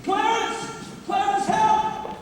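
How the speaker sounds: slow, desperate cry for help; calling out. Acted. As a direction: call out, begging. Calling for the angel.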